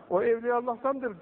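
mild mock shout, pitched high; retold shout. Saint scolding a man in his dream, half-shouted. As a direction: lift the voice high to imitate a shouted rebuke. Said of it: "bağırarak söylemiş".

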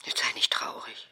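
whispered consolation; mother soothes her daughter; soft whisper. Acted. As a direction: hush her gently.

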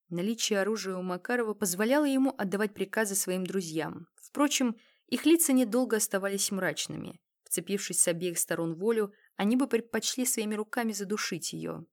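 ordinary delivery, nothing marked

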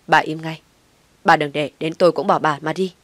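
loud stern warning. Acted. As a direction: cut her off with a loud threat. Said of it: "Ông Thái nghiêm mặt".

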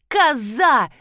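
put-on a coworker berating the clumsy girl, angry shout; angry yell. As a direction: bawl her out for breaking things.

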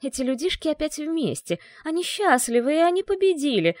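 the living dark scorning the happy people; spiteful silence. A narrator's reading. The dungeon's silence sneering at the happy people, spitefully. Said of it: "тишина ... корчилась от злости".

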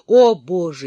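plain reading voice

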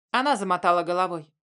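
ordinary delivery

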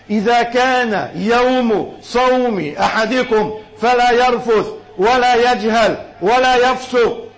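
slow classical recitation, rising in force, then easing off; slow hadith recitation. Acted. Preacher recites the fasting hadith to the crowd, slow and rising. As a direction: intone it, press on no shouting, then soften.

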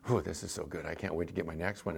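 low, soft, acted private thought; inner thought. Pie eater already thinking of seconds, quiet inner thought.

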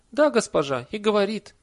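high, loud confirming voice; eager villager. A narrator's reading. Villager confirms to the lady who it was, eager. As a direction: jump in eagerly with the answer.

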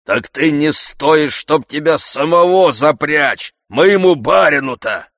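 slow, loud mocking reply; jeering coachman. Coachman mocking Zakhar, slow and loud. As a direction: drag out the insult.

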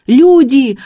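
high, loud yell; frantic loud shout; bawling. A narrator's reading. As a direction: call the whole street over. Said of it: "орал Гарик".

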